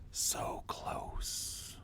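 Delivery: very quiet, breathy whisper, barely any voice. Voicing a book that whispers to Worm: whispering. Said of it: "The book whispers to you like".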